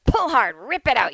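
loud, high mock coaching from a flight attendant; excited urging. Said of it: "She was all excited".

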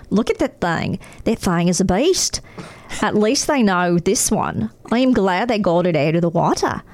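awed Australian surfer, lightly put on; light Australian accent, amazed. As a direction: marvel at the shark like an Aussie. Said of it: "read this in an Australian accent".

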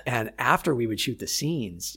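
ordinary talk, nothing marked

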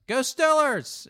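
loud, high drawn-out fan holler; heckler shout. Retold or imitated. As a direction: bellow it from the back of a comedy club. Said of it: "you're also gonna get a".

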